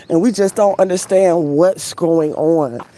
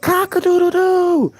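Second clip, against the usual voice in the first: much higher cartoon rooster crow; 12 semitones higher than usual. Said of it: "the rooster be like".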